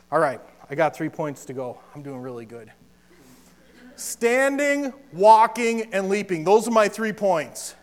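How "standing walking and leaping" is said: put-on broad singsong kids theatre. Shown as a demonstration. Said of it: "Can you say it with me?".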